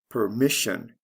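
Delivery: "permission" stressed per-MIS-sion; stress before the ending. Shown as a demonstration. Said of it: "Notice the stress changes in the same way".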